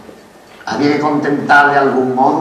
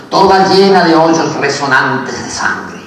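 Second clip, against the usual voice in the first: swelling, louder poetic cry; impassioned declamation; 3 semitones higher, 6 dB louder, slower than usual. Acted. Poet tells of Spain at war, impassioned declamation. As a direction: let the line surge out in horror.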